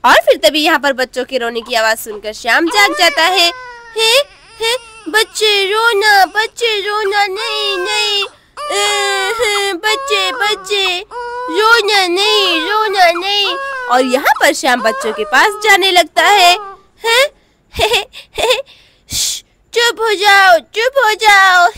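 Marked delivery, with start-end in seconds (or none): 4.0-13.6 put-on a little boy hushing crying babies, slowly; toddler voice. Toddler Shyam voiced in story. 17.0-21.7 put-on babyish shushing, a bit higher; a small boy shushing babies; toddler hushing.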